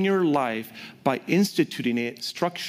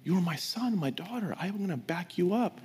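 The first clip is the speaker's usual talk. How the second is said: gentle reassurance; 2 semitones higher, 6 dB quieter than usual. Acted. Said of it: "And God said".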